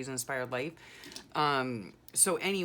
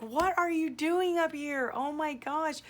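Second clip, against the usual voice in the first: shocked surprise; 12 semitones higher, 4 dB louder than usual. Retold or imitated. Recognizing her son in the car.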